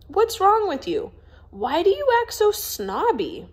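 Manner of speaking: indignant outburst. Acted. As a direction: call her out hotly. Jack confronts Augusta.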